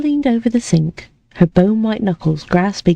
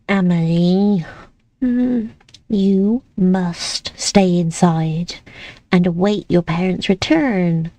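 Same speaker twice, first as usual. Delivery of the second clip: firm guardian; slower than usual. Acted. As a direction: lay down the rule gently but firmly. Lillica firm, slow.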